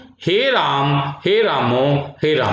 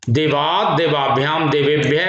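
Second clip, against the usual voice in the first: देवात् देवाभ्याम देवेभ्य rattled off quickly in one breath; fast recitation. Shown as a demonstration. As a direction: run through the declension at speed. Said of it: "इसको हम तेज speed से ऐसे पढ़ते हैं". (तेज़ गति से पाठ)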